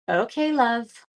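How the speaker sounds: okay love with an annoyed falling end; mock annoyed okay love. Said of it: "you have to say it like that".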